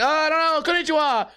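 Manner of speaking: high-pitched clueless mock reply; clueless diner. English-only diner answering the Japanese chef, high clueless blurt. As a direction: blurt it high, playing the lost foreigner. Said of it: "and I'm like".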